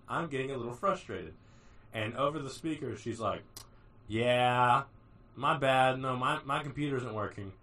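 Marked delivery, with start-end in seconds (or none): 4.1-7.5 sassy attitude. Retold or imitated. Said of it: "a lot of attitude".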